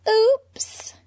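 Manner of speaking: high whispered oops. Acted. Harley realizing her secret slipped out, whispering. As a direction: breathe it like a slip.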